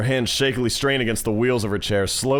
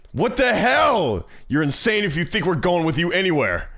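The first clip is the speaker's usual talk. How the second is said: indignant outcry; 6 semitones higher than usual. Acted. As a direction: blurt it in acted outrage, starting high. Acted protest against Mia.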